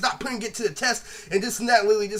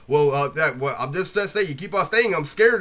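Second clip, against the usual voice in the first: low-toned imitation; 4 semitones lower than usual. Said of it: "I could tell it was a low tone".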